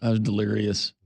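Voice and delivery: light mock redneck accent; a hint of a Southern redneck voice, playing dazed. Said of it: "the redneck accent that we were doing".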